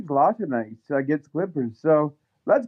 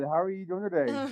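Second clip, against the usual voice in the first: phone held away; 7 dB quieter than usual. Real, not acted. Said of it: "why does your phone sound muffled?".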